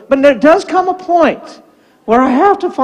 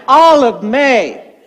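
stern full name; much slower than usual. Retold or imitated. Grandpa uses full name.

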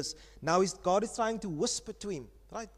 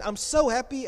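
put-on gleeful toddler; 4 semitones higher, 3 dB louder than usual. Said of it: "he takes from the other side again".

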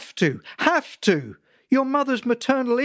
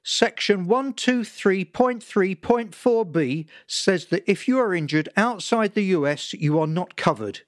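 ranting father; 4 semitones higher than usual. Acted. Father lecturing son about insurance, building tirade. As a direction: pile it on, gathering steam to a rant. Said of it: "He was picking up steam again".

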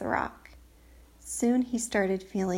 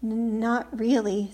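stuttering from cold, teeth chattering; 4 dB louder than usual. Acted. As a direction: shiver through the words. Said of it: "his teeth chattering".

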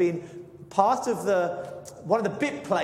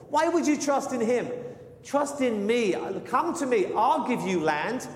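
boastful king; 4 semitones higher than usual. Acted. Preacher voices boastful Sennacherib.

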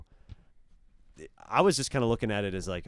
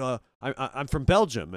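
put-on French accent; 4 semitones higher, 4 dB louder than usual. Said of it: "like, a French character".

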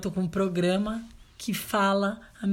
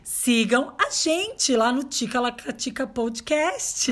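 slow, higher-pitched careful plug; careful, unsure delivery; 5 semitones higher, slower than usual. Real, not acted. Host plugging the podcast, not sure of it, careful. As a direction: pick through the name cautiously. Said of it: "ela falou com cuidado".

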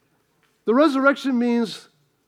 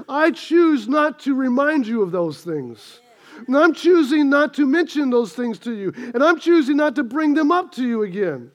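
God speaking. Retold or imitated. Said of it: "the choice that he makes is".

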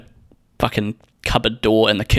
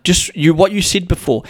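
retold flustered anger, high-pitched; high, exasperated come-back; meltdown; 8 semitones higher than usual. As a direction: imitate irate, stumbling accusation. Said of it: "you have this meltdown".

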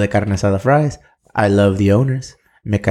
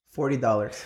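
whispering; 9 dB quieter than usual. Real, not acted. Secret price, hushed.

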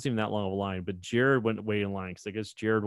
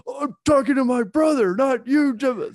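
high, loud, fast silly voice; brushing off a celebrity, hammed up; mock explanation; 8 dB louder than usual. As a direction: rattle it off in a put-on goofy voice. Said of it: "I don't wanna be like".

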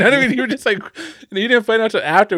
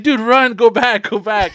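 higher, urgent mock warning; retold urgent warning; 5 semitones higher, 4 dB louder, slower than usual. Fleeing friends warn an arriving friend, urgent retold call. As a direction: re-enact warning a friend to turn back.

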